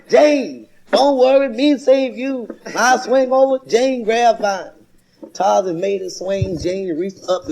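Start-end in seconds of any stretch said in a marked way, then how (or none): 0.1-2.5 loud high Tarzan call; jungle-man shout to Jane, slow on the last words; Tarzan holler. Acted. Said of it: "hollered out loud". 2.7-4.7 Tarzan talk. Acted. Tarzan broken English continued.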